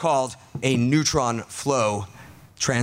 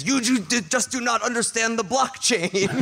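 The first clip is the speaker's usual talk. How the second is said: The Wire's voice; 7 semitones higher than usual. Acted. GM voices The Wire.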